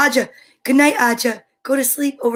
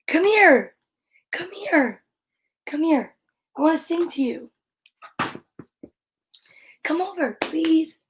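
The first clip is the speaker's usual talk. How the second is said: coaxing; 3 semitones higher than usual. Real, not acted. Calling the dog over.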